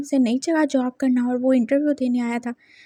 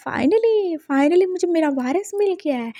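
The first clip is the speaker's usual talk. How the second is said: Finally jumps up high with joy; mildly hammed-up delight at finding his heir; a touch of overjoyed old man; excited grandfather; 3 semitones higher than usual. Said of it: "एकदम से excited ही हो रहे थे".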